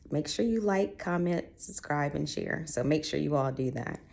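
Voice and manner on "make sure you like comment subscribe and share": imitating Chloe. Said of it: "she's gonna be like".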